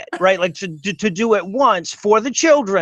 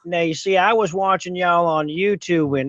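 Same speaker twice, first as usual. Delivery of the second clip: put-on hick voice; 2 semitones lower than usual. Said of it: "so I figure I'd talk like this".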